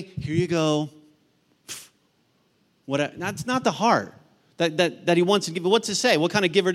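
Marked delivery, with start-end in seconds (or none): 0.0-0.9 reluctant. Retold or imitated. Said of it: "It's not reluctantly".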